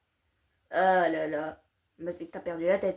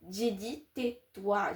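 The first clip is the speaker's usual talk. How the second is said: stern; 5 dB quieter, much slower than usual. Acted. Slow stern command.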